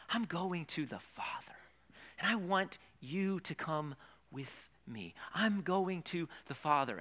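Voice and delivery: lightly voiced gentle Jesus; tender Jesus. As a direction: coax them lovingly to come along. Pastor voices Jesus inviting.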